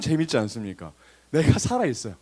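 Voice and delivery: ordinary talk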